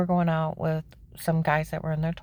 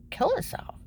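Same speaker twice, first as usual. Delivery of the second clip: shocked disbelief. Retold or imitated. Shocked at son's suicide talk.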